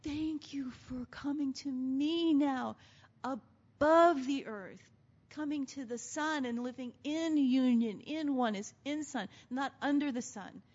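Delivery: a hint of an overjoyed groom; groom's joyful words. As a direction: savour each word with delight. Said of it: "He doesn't even go".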